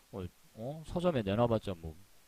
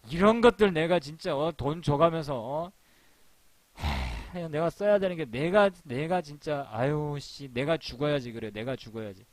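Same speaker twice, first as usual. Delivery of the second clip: mock exasperated rant; 3 semitones higher than usual. Furious editor ranting to himself.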